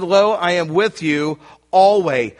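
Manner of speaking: "Lo" leaned on, slow and firm; slow it down and press "Lo"; emphatic lo. Shown as a demonstration. Preacher reading the verse to the church, slow and emphatic. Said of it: "it's emphatic in the text".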